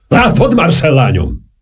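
high, quavering theatrical address. A narrator's reading. Saint-Germain turns to Marcel in a quavering voice. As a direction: let the voice tremble high with emotion. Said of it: "mondta Saint-Germain rezgő hangon".

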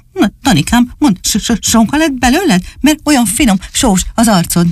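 high, playful puppy voice; teasing little dog. Acted. Csupi teases Dani about his salty face, high and playful. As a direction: tease him like a cheerful puppy.

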